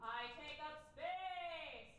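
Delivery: slow, grounded affirmation. Shown as a demonstration. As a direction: settle into each word.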